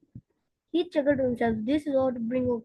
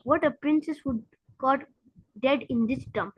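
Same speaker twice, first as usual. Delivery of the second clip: gloomy; 3 dB quieter than usual. Acted. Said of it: "he asked gloomily".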